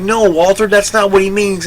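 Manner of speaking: high, alarmed, with a nervous laugh; panicked hushing. Retold or imitated. Clerk hushes Walter about the tax, high and alarmed. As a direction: stop him before anyone hears.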